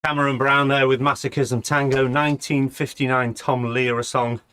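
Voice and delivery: slightly winded after rushing; breathless from hurrying back; out of breath. Real, not acted. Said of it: "I'm a little bit out of breath".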